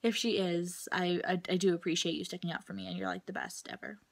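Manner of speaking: hushed, half-whispered thanks to a friend; soft aside to friend. Real, not acted. Whispering thanks to the friend who backed her up. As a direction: drop to a near whisper, sincere. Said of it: "if she's watching this".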